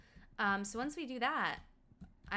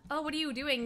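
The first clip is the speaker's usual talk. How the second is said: higher mock-Minnesotan question; bad Minnesotan accent; 6 semitones higher, 4 dB louder than usual. Asking a door-holder what he's doing, mock Minnesota accent. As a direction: put on a clumsy Minnesota accent. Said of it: "my Minnesotan accent is so bad".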